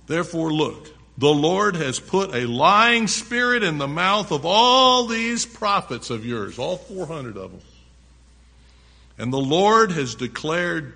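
emphatic, projected Bible reading; preacher reading scripture to the congregation. A narrator's reading. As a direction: read it out loud, punching key words. Reads scripture aloud, forcefully.

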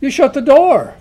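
desperate call to the Lord at a shut door; pleading cry. Retold or imitated. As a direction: beg to be let in, loud and high.

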